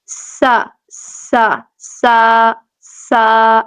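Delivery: سا said light and thin with a whistle; light seen. Shown as a demonstration. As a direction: hiss سا lightly. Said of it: "سین ادا کس طرح کریں گے؟".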